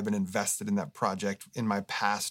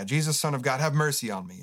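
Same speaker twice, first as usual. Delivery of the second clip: mild retold call across the road; 3 semitones higher than usual. Blind man calling to Jesus, mild mock call. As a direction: call out, only a little raised. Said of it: "he shouts out".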